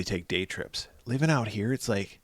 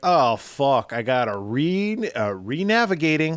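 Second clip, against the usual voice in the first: very slow, exasperated, fed-up sat-nav voice; 5 semitones higher, 5 dB louder than usual. Two speakers imagine a GPS with attitude rerouting after a missed turn: exasperated GPS voice. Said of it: "it just sounds of exasperation".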